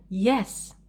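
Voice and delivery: Yes. stressed, pitch rising then falling; intonation on Yes. Shown as a demonstration. Teacher modelling an exam answer, emphatic intonation on Yes. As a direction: lift and drop the voice on "Yes.". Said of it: "you should use intonation".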